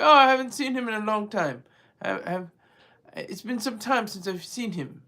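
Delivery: hammed-up bad Russian accent; badly faked Russian accent; terrible Russian accent. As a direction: do a clumsy Putin with a Russian accent. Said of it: "my terrible Russian accent".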